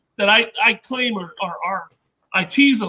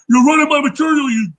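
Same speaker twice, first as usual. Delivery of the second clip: mad accusation; 3 dB louder than usual. Retold or imitated. Mad prospector berates inventor over his material, acted anger. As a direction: play Dave mad, hurling a mild insult. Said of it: "because he's mad".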